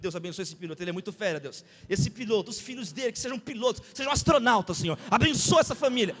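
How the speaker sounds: retold run-on prayer building in volume; impromptu prayer. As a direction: pray aloud for someone, gathering force. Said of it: "Comecei a orar pela família".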